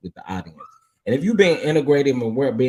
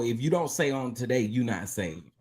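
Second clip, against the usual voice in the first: preacher lady voice; 6 dB quieter than usual. Acted. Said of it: "put on my preacher lady voice".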